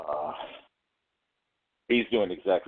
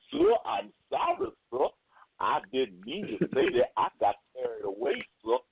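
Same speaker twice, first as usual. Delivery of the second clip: groveling apology; 5 semitones higher than usual. Retold or imitated. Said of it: "he's back to".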